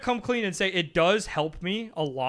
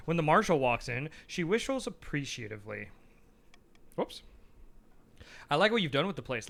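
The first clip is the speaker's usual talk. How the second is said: calm, lowered reading voice; story narration. Acted. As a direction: narrate the game text like a storybook. Reads game narration and characters.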